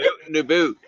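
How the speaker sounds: laughing, high mock Canadian "aboot"; Canadian accent. Guest echoing the host's joke, laughing Canadian accent. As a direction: giggle through a Canadian accent. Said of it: "I love how the Canadians talk".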